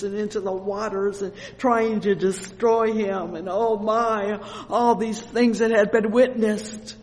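loud, impassioned sermon building in force; full-force preaching. Real, not acted. Preacher laments a child burdened by evil, full-force preaching. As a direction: pour out the story loudly and fervently.

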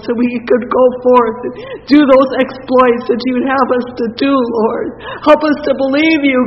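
loud, rising pleading prayer that swells then settles; fervent prayer. Acted. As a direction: cry out to God for faith, then calm down to amen. Leads a congregational prayer.

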